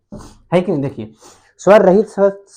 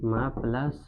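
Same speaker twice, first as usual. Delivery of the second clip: very slow, soft sound-by-sound split; syllables broken apart very slowly; slow spelled breakdown; 5 semitones lower, 11 dB quieter, slower than usual. Shown as a demonstration. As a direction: draw each part out slowly. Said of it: "जब तोड़ेंगे तो ऐसे तोड़ेंगे".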